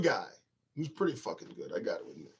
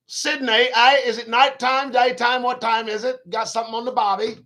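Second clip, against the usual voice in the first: higher-pitched mock Australian accent; 6 semitones higher, 5 dB louder than usual. Host quizzing Sydney viewers on the time, mock Australian accent. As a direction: pepper the questions out in a put-on Australian lilt. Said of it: "I don't do my accents".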